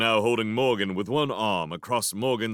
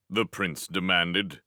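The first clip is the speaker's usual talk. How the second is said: ordinary delivery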